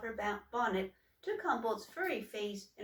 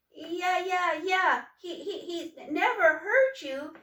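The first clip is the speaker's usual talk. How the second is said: much higher and louder with a nervous laugh; nervous friend; 9 semitones higher, 9 dB louder than usual. Acted. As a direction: blurt it out, stumbling. Quiet friend nervously backs her.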